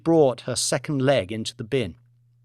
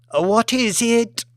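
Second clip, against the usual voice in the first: lofty lady, drawn out; 8 semitones higher, slower than usual. Acted. Lady Elizabeth answers staff.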